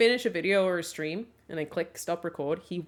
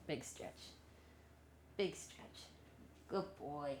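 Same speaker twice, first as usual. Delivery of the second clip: whispering; 5 semitones lower, 18 dB quieter than usual. Real, not acted. Soft words to dog.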